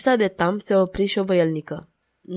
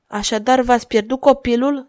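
compassionate question, pitched up; boundless compassion; 5 semitones higher, 5 dB louder than usual. A narrator's reading. Madwoman pitying the duchess who lost a child, compassionate. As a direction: ask it with open pity. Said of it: "cu un aer de compasiune nețărmuită".

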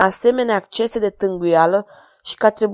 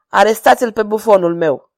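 louder, cold royal command; king coldly ordering the jester's arrest; cold regal order; 5 dB louder than usual. Acted. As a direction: order the arrest without a flicker of pity. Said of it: "comandă cu răceală regală".

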